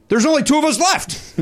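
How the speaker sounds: high, pleading whine about being left out; pleading protest. Retold or imitated. Comic whine to the bodyguard, pleading in a high voice. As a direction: squeak out a desperate protest. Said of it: "And I say".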